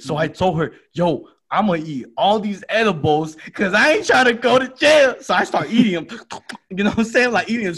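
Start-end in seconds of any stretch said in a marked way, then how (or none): 0.9-5.1 high, loud frantic plan; frantic resolve. Retold or imitated. Telling his friend he'll eat the edibles, frantic. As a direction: rush it out, desperate.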